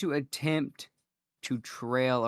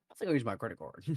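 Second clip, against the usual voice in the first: mock American accent; 4 semitones lower, 7 dB quieter, faster than usual. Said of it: "This is my American accent".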